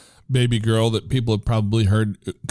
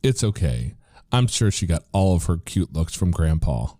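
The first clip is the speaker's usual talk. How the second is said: very serious; 2 semitones lower than usual. Retold or imitated. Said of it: "very seriously and says".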